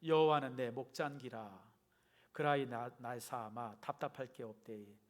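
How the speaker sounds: put-on Gyeongsang accent with drawn-out line endings; Gyeongsang dialect. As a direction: read it aloud as a Gyeongsang local would. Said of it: "경상도 버전은 이렇게 시작합니다". (경상도 사투리로)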